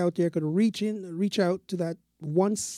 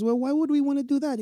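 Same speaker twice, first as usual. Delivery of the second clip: pitched higher, puzzled; a hint of a baffled fisherman asking why; the guy's question; 8 semitones higher than usual. The fisherman asks the passerby why, mildly baffled. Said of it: "the guy says".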